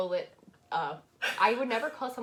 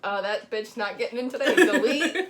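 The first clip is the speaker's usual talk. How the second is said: mock catty receptionist; 3 semitones higher, 8 dB louder than usual. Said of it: "she is like".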